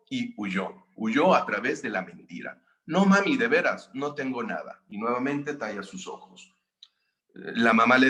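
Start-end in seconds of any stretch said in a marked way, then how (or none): 2.9-4.8 put-on a kid insisting nothing's wrong; child denying. Niño niega que llora. (un niño fingiendo que todo está bien)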